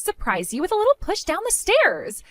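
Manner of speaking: lightly voiced catty sister, dismissive; smug sister-in-law. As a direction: shrug it off like a spoiled brat. Sister-in-law excuses pushing her.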